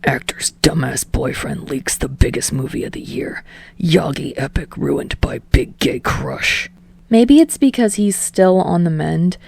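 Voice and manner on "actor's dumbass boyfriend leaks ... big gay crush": mild disgusted mutter. A narrator's reading. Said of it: "spits out, disgusted".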